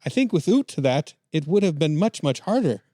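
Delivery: lightly caricatured Canadian quote, oo vowels; put-on Canadian accent. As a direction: read the quote as a mock Canadian. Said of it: "Canadian voice".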